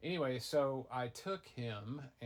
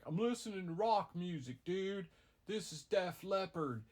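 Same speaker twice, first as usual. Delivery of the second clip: higher, lightly voiced rocker dude; a hint of a laid-back rock kid, showing off; rocker teen brother; 8 semitones higher, 4 dB louder than usual. Teen brother brags about rock.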